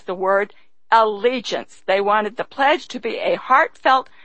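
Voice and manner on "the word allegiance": a small pause after "the word", then "allegiance." set apart and falling; emphasized allegiance. Shown as a demonstration. Lecturer explaining the pledge, setting apart "allegiance.". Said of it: "particularly wanted to emphasize".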